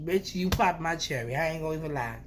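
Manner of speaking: usual speaking voice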